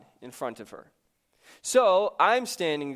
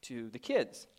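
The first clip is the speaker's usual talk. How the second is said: wondering aloud; 6 dB quieter than usual. Retold or imitated. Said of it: "So we're like".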